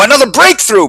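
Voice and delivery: high, scornful boom; mocking roar. A narrator's reading. Bixby mocks Eugene with a high mocking roar. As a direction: roar it to mock the idea. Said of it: "Bixby roared".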